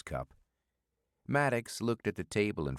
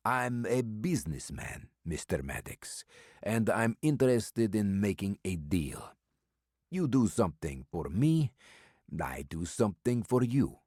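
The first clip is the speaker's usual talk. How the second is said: put-on mysterious old stranger with an Eastern European accent, amused; calm and sly, a heavy foreign accent; stranger's accented voice; 4 semitones higher than usual. Old stranger brushing off Maddox's offer of a meal, in an Eastern European accent.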